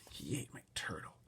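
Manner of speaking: soft unvoiced whisper. A narrator's reading. Boy whispering back to the neighbour. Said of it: "I whispered back".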